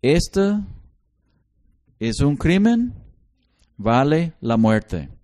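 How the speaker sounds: firm talk to a disrespectful daughter; stern father. Retold or imitated. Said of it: "yo les decía".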